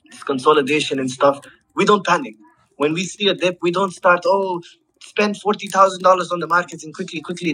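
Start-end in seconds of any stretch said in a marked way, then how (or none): 4.2-7.5 higher, mock-frantic investor voice; sending up a frantic dip buyer, higher and hurried; mock panicky trader.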